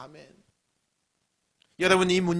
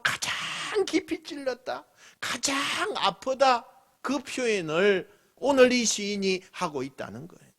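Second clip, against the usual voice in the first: normal talking voice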